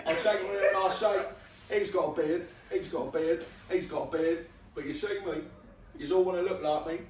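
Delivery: Cockney patter, amused; Cockney accent. Shown as a demonstration. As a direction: rattle off boasts in a Cockney accent.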